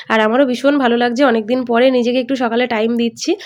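talking with a toothbrush in mouth; while brushing teeth. Real, not acted. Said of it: "তো brush করতে করতে চলে এসেছি ছাদে".

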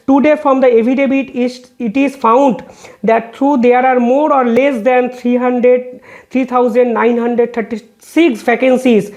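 reading a court order word by word, very slow; slow, measured legal read-out; slow formal reading. Acted. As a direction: spell out each figure deliberately for the record. Reads court affidavit quote aloud.

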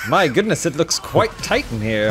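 light British gentleman voice, fussy; English gent accent. Pretend. John Steed squeezes into the car, British accent. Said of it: "doing this accent the whole time".

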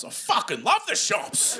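high, stretched gushing cry; mock drugged-up excitement. Comic as drugged mate thrilled by shops, mock excitement. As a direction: overdo the thrill about something mundane. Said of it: "then you get excited about anything".

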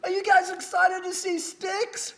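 high-pitched crowd-rousing question; hammed-up announcer pitch; hype-man emcee. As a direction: call it out to a packed arena like a radio DJ. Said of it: "He goes".

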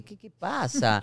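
hammed-up busybody asking; nosy questioner. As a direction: imitate a meddling acquaintance. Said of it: "me van a preguntar".

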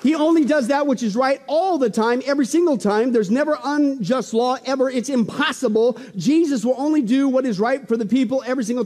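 rally the congregation, building; full-force preaching. Real, not acted.

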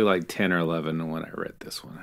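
unvoiced whisper, half to herself; whispered aside. Real, not acted. Host whispering her age to her co-host. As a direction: drop to a whisper for the confession.

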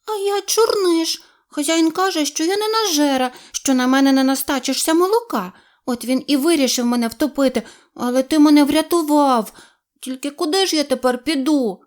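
high, small kitten voice; a shy wet kitten says thanks; grateful kitten. A narrator's reading. Kitten thanks the duckling in a high voice.

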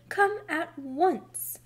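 high, loud, slow summons; drawn-out, commanding holler; alarmed shout. A narrator's reading. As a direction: stretch each word in an urgent call. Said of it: "she shouted".

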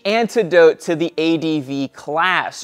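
grand showman announcing to the crowd; booming ringmaster-style presentation; florid victorian lecturer. Acted. Showman-style intro to bike review.

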